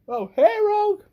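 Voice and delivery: high-pitched acted hello; excited greeting. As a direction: pipe up on seeing a friend. Hero voiced greeting old friend.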